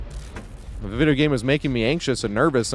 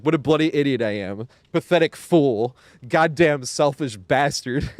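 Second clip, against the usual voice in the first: slow, lightly voiced self-insults; imitating Gustave's rant; 2 semitones higher, slower than usual. Streamer quotes Gustave berating himself, slow mock rant. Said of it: "He's like".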